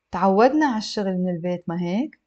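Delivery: fluent, connected model reading; slightly brisk for learners. Shown as a demonstration. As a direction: run straight into the tag question. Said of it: "I'll read it a little bit faster".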